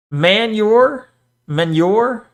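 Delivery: manure said as man-YOR, rising; doubtful "manure" with a y glide, man-YOR; queried pronunciation. Shown as a demonstration. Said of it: "is how you say it".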